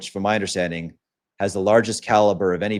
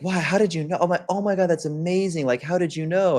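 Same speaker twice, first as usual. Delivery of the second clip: put-on impressed girl; 9 semitones higher than usual. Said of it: "she's like".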